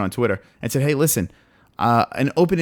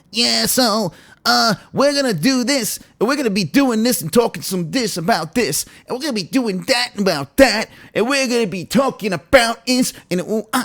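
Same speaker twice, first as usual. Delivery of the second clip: pitched-up, aimless, filler-heavy rambling newscaster voice; 9 semitones higher than usual. Complaining about guys delivering the news, the speaker mimics one: imitating a rambling news guy. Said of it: "the guy's voice is like".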